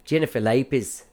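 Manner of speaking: attempted Australian accent. Shown as a demonstration. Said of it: "by just saying the words".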